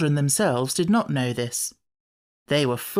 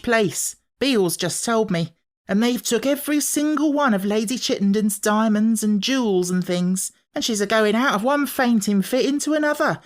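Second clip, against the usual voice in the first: excited gossiping maid; 7 semitones higher than usual. A narrator's reading.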